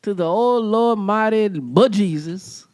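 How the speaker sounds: playful oath with a hint of Southern twang; light Southern accent. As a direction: lay on a touch of Southern accent. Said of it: "a little Southern accent with that last part".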